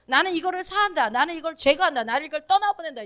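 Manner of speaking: confident self-talk of release; short renouncing declarations. Shown as a demonstration. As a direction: declare each rejection crisply. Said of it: "그냥 이렇게만 하셔도 돼요".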